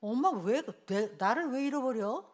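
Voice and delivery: overacting daughter. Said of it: "그 오버한 거예요".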